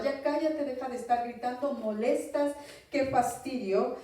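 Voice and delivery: mock telling-off from the crowd; reprensión imitada. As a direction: scold briskly, as an annoyed bystander. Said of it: "Y muchos le reprendían". (regaño imitado de la multitud)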